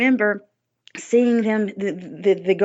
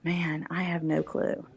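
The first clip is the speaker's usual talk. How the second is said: bewildered murmur; 8 dB quieter, slower than usual. Retold or imitated. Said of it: "I'm like".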